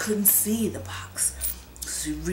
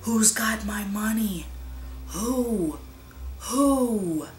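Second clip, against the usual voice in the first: a lightly higher, eerie ghost voice calling; distant ghostly wail; 4 semitones higher, slower than usual. A narrator's reading. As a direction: moan it like a far-off ghost. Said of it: "a voice crying".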